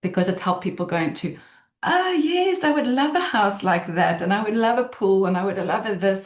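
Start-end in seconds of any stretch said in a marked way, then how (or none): 1.8-6.3 excited dreaming. Retold or imitated. Voicing vision-board dreaming.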